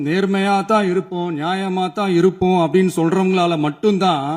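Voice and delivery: emphatic, projected rally oratory; political speech. Real, not acted. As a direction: drive each point home to the crowd.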